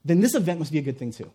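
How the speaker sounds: brisk, confident reasoning; hopeful conclusion. Acted. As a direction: conclude it with quick assurance. Hopeful reasoning, contrasted with fearful.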